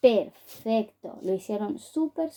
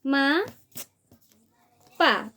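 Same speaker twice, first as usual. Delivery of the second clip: "Ma", long pause, "Pa" as separate beats; segmented syllables; 2 semitones higher than usual. Shown as a demonstration. Teacher segmenting mapa for children, one syllable at a time. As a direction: pull Ma and Pa apart. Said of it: "ahora vamos a mapa".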